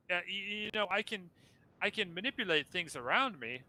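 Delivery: high, grand, theatrical ghostly host; flaming skull voice. Acted. Skull asks for help.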